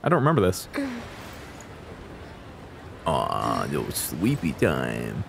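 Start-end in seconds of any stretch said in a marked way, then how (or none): 3.0-5.2 very low, soft, drawn-out coo; cutesy cooing. Real, not acted. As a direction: coo it slowly, as to a sleepy pet. Cooing over character in demo.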